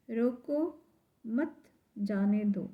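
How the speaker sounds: "रोको", "मत" and "जाने दो" set apart by pauses; measured example sentence, breaks around "मत"; example read with pauses. Shown as a demonstration. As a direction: read it out slowly, pausing after "रोको" and after "मत". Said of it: "यहाँ पर उदाहरण दिए गए हैं".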